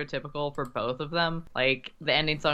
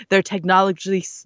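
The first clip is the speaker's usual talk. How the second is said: narrator voice; 3 semitones higher, 5 dB louder than usual. Acted. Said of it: "your best narrator voice".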